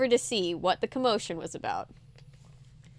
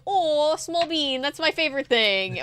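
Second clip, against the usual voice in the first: gushing fan; 5 semitones higher than usual. Retold or imitated. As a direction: coo over it fondly. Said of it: "everybody's like".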